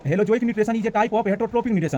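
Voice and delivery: slowed-down English reading; slow careful reading. Shown as a demonstration. Teacher rereading the English definition for students, slowly. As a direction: take each word slowly and deliberately. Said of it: "यहाँ जैसे लिखे".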